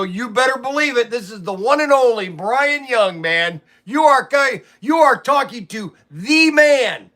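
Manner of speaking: mock-grand phone bragging; playful boasting. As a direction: announce yourself like the big star. Retold boastful answer to caller.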